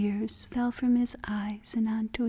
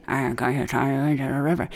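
mouth full; 7 semitones lower, faster than usual. Acted. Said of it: "his mouth was full".

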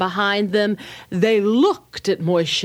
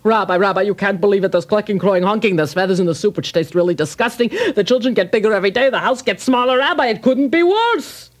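desperate poor man; much faster than usual. Acted. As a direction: tumble the woes out fast. Poor man complains again.

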